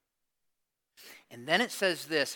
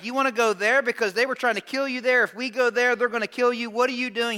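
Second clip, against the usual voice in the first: alarmed protest; 5 semitones higher, 4 dB louder than usual. Retold or imitated. Disciples challenge Jesus in alarm.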